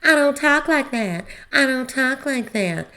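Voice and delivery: high, loud indignant protest; mock Sutton insisting she doesn't talk that way; imitating offended Sutton. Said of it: "starts saying".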